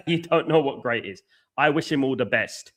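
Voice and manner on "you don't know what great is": laughing. Real, not acted. Repeats the jibe, laughing.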